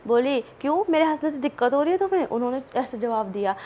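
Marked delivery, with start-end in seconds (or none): 0.6-2.3 quick, higher-pitched imitation of talking back; mock a rude, rapid comeback; rude retort. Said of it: "इतना rudely बोल रही है". (रूखे जवाब की तेज़ नकल)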